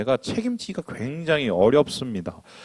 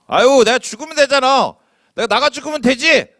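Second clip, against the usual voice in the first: much higher, louder mock yell at parents; sulky teen outburst; 10 semitones higher, 5 dB louder than usual. Child yelling at mother and father, mock tantrum. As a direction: throw it out like a child storming off. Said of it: "저도 옛날에 그랬어요".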